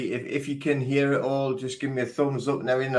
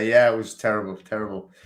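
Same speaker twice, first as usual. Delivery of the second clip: getting emotional; 3 dB louder than usual. Real, not acted. Thanking viewers for condolences about his lost dog, getting emotional. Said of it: "I'm getting em-, emotional as I say it".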